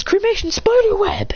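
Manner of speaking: high cry naming the move; attack call. Acted. Character corrects his fire move's name, high attack call. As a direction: call out the technique with force.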